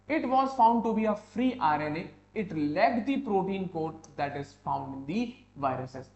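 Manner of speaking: slow, measured dictation; careful classroom reading; textbook read-aloud. Real, not acted. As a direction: read the notes out deliberately for the class. Reads textbook lines aloud.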